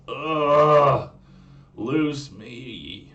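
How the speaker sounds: put-on loud, high exasperated Valley Girl groan; Valley Girl accent. Mermaid demanding release in a loud Valley Girl whine. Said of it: "I'll put my meester in it".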